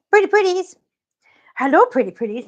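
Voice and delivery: high, loud sing-song pet name. Real, not acted. Owner calling her cat's pet name, in high baby talk. Cooing at cat.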